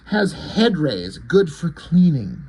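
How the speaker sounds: slow, deliberate alien pronouncement; lightly voiced alien, drawn-out words; possessed alien. Possessed Suprema's line being voiced.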